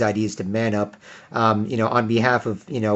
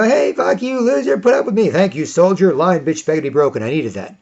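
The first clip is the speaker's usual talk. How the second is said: mocking heckler; 5 semitones higher than usual. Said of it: "You know".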